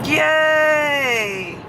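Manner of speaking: long, high cheering shout; excited cheer. Real, not acted. Passenger cheering the arrival in Germany, excited. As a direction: cheer it out, stretched and falling.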